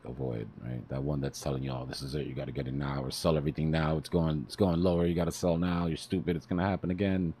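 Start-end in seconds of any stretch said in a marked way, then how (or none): 1.7-7.3 mildly urgent, building in pitch and volume; imitating an urgent voice in the head; hyper inner voice. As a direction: run on like a nagging panicky thought, lightly acted. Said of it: "it's that hyper voice".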